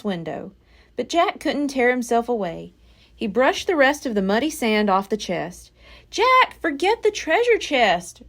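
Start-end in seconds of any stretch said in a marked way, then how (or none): 6.1-8.2 cried. A narrator's reading. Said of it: "cried Annie".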